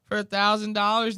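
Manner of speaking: high-pitched predator sweet-talk; exaggerated creep impression, pitched far up; Dave, creepy. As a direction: lure them in with a high, creepy voice. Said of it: "Dave sits there and goes".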